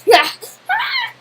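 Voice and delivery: high, loud wordless cry; loud yelp. Real, not acted. Student answering the tutor, loud high yelp. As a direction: let out a sudden high yelp.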